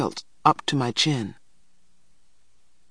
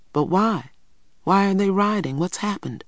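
questioning; 6 semitones higher than usual. A narrator's reading. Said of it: "we could hear Mama asking".

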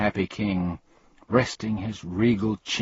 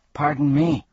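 higher, louder polite cut-in; polite interruption; 6 semitones higher, 5 dB louder than usual. A narrator's reading. Milo interrupting the king's speech, politely. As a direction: break in courteously. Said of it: "coughed Milo as politely as possible".

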